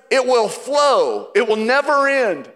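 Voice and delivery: flow slowed and stressed, never punched; emphatic reading. Shown as a demonstration. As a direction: lean into never. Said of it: "And then it says".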